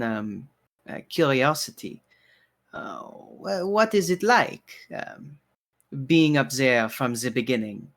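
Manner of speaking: lightly voiced barkeeper, hesitant polite questioning; courteous bartender, curious. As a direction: ask delicately as the bartender, with halting pauses. Game master voices curious bartender.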